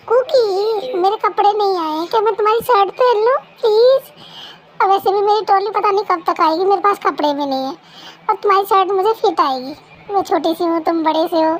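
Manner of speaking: high, loud and wheedling, calling to her husband; loud coaxing. Acted. New bride loudly begging her husband for his shirt, so loud she is heard outside. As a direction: coax him loudly for his shirt, voice carrying out of the room. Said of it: "बाहर तक आवाज़ आ रही है room से".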